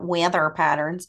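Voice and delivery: "weather patterns" with a hint of Boston accent; accent slip repeated. Shown as a demonstration. Podcaster replaying own slip for co-host, slight Boston accent. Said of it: "I said it like that".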